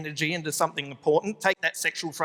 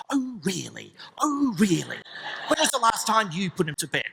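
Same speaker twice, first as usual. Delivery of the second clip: hushed sarcastic wife. Retold or imitated. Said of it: "hushed, angry argument".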